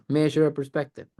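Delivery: fast, prim little mock-polite question; mock prissy. Mocking himself asking Carlos, prim and precious. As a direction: toss it off like a fussy, precious coach. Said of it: "me saying".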